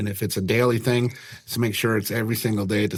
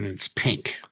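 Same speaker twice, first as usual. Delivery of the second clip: whispered aside; 4 semitones lower, 5 dB quieter than usual. Real, not acted. Describing pink beard.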